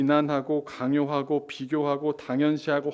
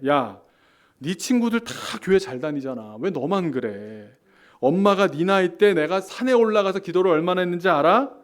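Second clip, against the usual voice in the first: put-on louder, exasperated mom scolding her kid; a mother's reproachful comparison, slowing on 왜 너만 그래; nagging mother comparing; 3 semitones higher, 6 dB louder than usual. Pastor voicing a mother comparing her child to others, exasperated. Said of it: "한번 실감나게 한번 해보겠습니다".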